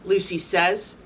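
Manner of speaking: lively storybook read-aloud; animated picture-book narration; reading to children. A narrator's reading. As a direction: read it to a room of kids.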